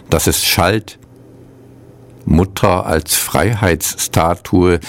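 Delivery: measured poem recital with long pauses; poetry reading. Acted. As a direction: read each line as verse, letting it settle. Reads two translated poems.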